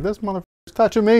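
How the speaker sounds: high, squeaky starstruck panic; starstruck disbelief. Retold or imitated. Meeting his sneaker idol, a squeaky starstruck freak-out. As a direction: freak out inside, voice jumping up. Hero grabs his shoulder.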